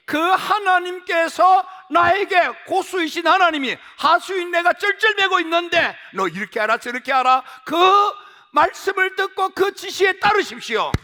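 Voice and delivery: high, loud, shouting sermon; preaching at full force. Acted. Pastor urging congregation to seek God, loud and high. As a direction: thunder the call to seek God.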